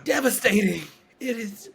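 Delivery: fighting tears on the word; emotional. Real, not acted. Speaker opening up about her cousin's cancer, close to tears. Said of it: "I don't know why I'm getting emotional".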